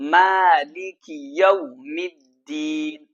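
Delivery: slow, measured tajweed recitation; slow melodic Quran chant. Shown as a demonstration. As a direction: recite it slowly like a qari. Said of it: "میرے ساتھ پڑھیں".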